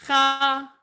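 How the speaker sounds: Mercha sung, then just cha sung high; trope cut short. Shown as a demonstration. Teacher shows mercha shrinking to cha. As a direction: drop the mer, sing only cha. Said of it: "the mer is out".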